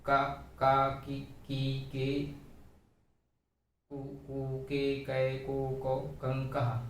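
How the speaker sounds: chanted barakhadi recital, each syllable twice; sing-song through the ka row, syllable by syllable; reciting the syllable chart. Shown as a demonstration. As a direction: classroom recitation of का की कु के. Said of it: "बारह खड़ी पढ़ते हैं".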